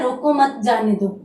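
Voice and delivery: रोको मत together, जाने दो falling away; everyday reading of रोको मत, जाने दो; ordinary phrasing, मत with रोको. Shown as a demonstration. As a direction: say रोको मत as one unit, then जाने दो. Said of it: "सामान्य रूप में प्रयोग में लूं".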